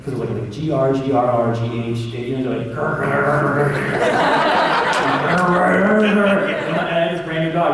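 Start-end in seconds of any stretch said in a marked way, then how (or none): 2.7-5.4 loud, rolling comic growl; spelled-out growl brought to life; imitated dog growl. Shown as a demonstration. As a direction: growl out the dog sound effect. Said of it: "the sound effects for the dog".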